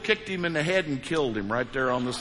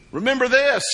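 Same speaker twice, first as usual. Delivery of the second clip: emphatic exclamation; 9 semitones higher, 6 dB louder than usual. Shown as a demonstration. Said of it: "repeated emphatic title".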